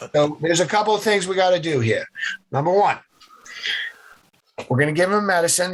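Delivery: put-on brisk orders in a nasal New England accent; nasally New England accent. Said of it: "had that nasally New England accent".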